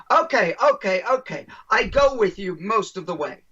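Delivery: lightly imitated German accent; conceding in a mock German accent. German man partly agrees with the speaker, in a light German accent. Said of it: "excuse my German accent".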